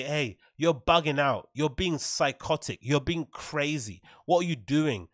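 slow, spaced-out telling-off; imagined reproach. Retold or imitated. Regular folk calling out a celebrity, slow mock reproach. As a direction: lay out each reproach slowly.

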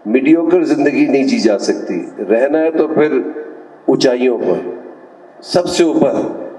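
declaimed verse with measured pauses, each line falling at the close; poetic recitation. Acted. Advising the audience on living at the heights, poetic recitation. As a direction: recite it to an audience, pitched above casual talk.

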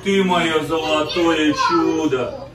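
drawn-out tender words with a hint of tears; drawn-out doting praise to the dog; slow tender praise. Real, not acted. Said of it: "repeated praise to the dog".

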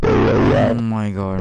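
loud, slow drawn-out oh my god; loud exclaim. Real, not acted. Gamer reacts loudly to his friend. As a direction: blurt it out slowly. Friend just yelled something.

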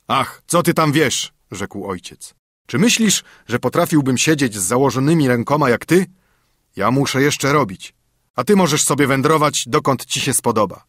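a hint of a worried, cross old father; father scolding his son over the axe.

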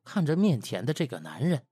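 usual speaking voice

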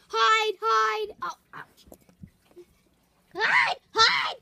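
loud, hurried warning to hide; urgent shout. Pretend. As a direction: yell at them to hide. Hiding from the boss.

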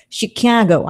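a hint of Chicago accent on "Chicago"; "Chicago" with a half-managed local Chicago accent; attempted Chicago accent. Shown as a demonstration. Host trying to show how Chicago sounds, Chicago accent. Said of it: "I can't do it".

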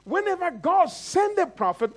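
high-pitched sermon proclamation; emphatic preaching. Acted. Preacher explains prophets to congregation, emphatic preaching. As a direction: lift it up for the congregation.

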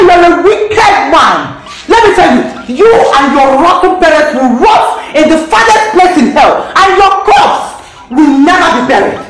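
raging, shouting curses at him; furious cursing. Acted. Woman cursing her enemy Emmanuel, furious shouting. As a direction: spit every curse at the man who beat her.

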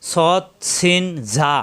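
"সৎ, সিন, ঝা" slow, with long hissing s and buzzing z; whistled sibilants. Shown as a demonstration. Teacher modelling three letters, "সৎ, সিন, ঝা" sibilant and slow. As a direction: whistle the first sound of "সৎ, সিন, ঝা". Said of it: "শীষ দিয়ে উচ্চারণ".

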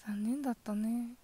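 cold whisper; yandere. Acted. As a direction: whisper the trap sprung. Reveals she drugged him. (ささやく冷たいヤンデレ)

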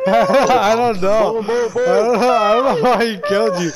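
laughing. Real, not acted. Laughing at angry teammate.

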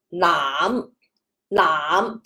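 腩 starting low and rising a little, Cantonese fifth tone; 腩 said with a low, small rise. Shown as a demonstration. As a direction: lift 腩 gently from a low start. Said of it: "第五声的话呢 其实它也是往上的".

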